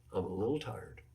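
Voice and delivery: a hint of a sheepish player asking for a break; meek little plea. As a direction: play the timid player begging the coach. Mock plea to the coach.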